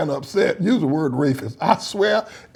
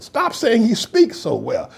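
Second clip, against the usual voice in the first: usual speaking voice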